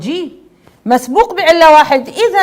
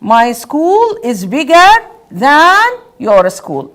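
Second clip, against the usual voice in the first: slow model sentence; much slower than usual. Shown as a demonstration. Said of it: "Just like what?".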